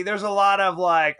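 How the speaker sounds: usual speaking voice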